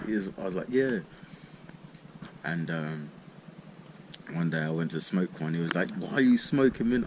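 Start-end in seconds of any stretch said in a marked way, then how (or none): 0.7-1.0 high, loud proud yeah. Retold or imitated. Proud answer to friend. 6.0-7.1 friend's puzzled question, higher and louder; mocking friend. Friend voiced in story.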